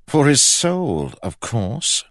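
high, slow, emphatic king; insistent king. A narrator's reading. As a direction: explain it slowly as a high-voiced king. King answers baffled Kell.

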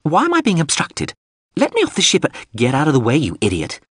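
high, affronted drone; indignant synthesized voice. Acted. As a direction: protest in a high little robot voice. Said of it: "the synthesized voice went on".

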